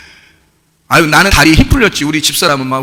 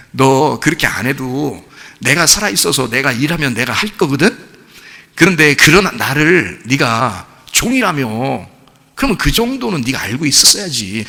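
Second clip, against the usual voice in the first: God speaking; 2 semitones lower, slower than usual. Retold or imitated. God's voice in imagined dialogue.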